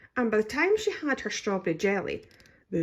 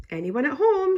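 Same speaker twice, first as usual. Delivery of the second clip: cheerily; 9 semitones higher, 7 dB louder than usual. A narrator's reading. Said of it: "she asked cheerily".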